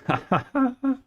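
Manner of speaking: high, bursting laugh; surprised burst of laughter. Real, not acted. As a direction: laugh out in disbelief. Realizes music left playing.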